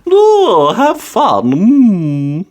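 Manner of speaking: high, comforting granny voice; a kindly grandma soothing a child; bright, gentle old-lady reassurance; Granny Pig's voice. A narrator's reading. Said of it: "said Granny Pig".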